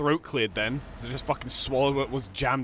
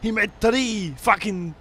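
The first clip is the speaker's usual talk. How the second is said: slow, higher, laughing; 9 semitones higher, 6 dB louder, much slower than usual. Real, not acted. Gamer laughs about Terminator films, laughing. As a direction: laugh through it.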